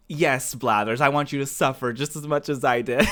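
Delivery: mildly heated mock indignation; imitating pissed-off friend. Retelling a friend fed up with bug hunting, mock pissed. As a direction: play a friend's annoyance, half in fun. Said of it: "you were so pissed".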